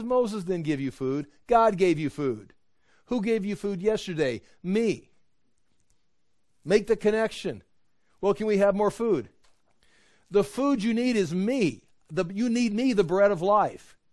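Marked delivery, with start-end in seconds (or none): 0.0-5.1 higher-pitched, mildly mad correction; mildly exasperated retort. Retold or imitated. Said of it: "he got mad at them". 8.2-9.3 higher-pitched, lightly acted pestering; mock pleading. Hungry crowd voiced pestering Jesus. 10.3-14.0 higher-pitched, mildly mad retort; mildly exasperated insistence. Retold or imitated. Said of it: "he got mad at them".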